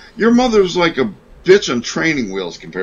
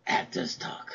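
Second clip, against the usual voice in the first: hammy stage actor; 15 dB quieter, slower than usual. Shown as a demonstration. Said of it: "I'm doing actors".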